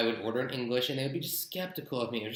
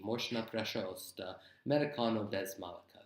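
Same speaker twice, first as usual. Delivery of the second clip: Russian phrase. Shown as a demonstration. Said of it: "it would just be".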